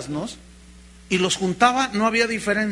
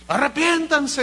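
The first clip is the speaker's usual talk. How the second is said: grito de predicador; 7 semitones higher than usual. Retold or imitated.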